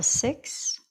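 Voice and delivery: whispered breathy count; ocean throat breathing. Acted. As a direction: let the word ride the ocean breath. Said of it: "listening to that whisper at your throat".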